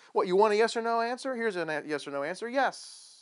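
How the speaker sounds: hammed-up giving in to a demand; mock exasperated answer. Jesus imagined giving John his yes or no, mock exasperated.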